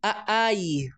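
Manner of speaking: "Aai." said as a bare vowel word; a toddler's vowel-only call. Shown as a demonstration. Teacher imitates child calling father with vowels. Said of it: "só usando as vogais".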